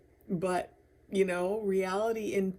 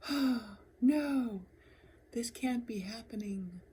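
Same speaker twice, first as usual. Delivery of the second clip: whispered dread; 6 semitones higher than usual. Retold or imitated. Noticing her laughter fade, a whispered dismay. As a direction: gasp into a hushed, dismayed whisper. Realizing her light is dimming.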